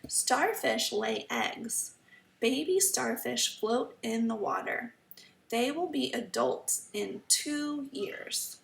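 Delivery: slow, careful storybook reading; reading to children. Acted. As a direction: read each sentence slowly for kids. Reading the book aloud.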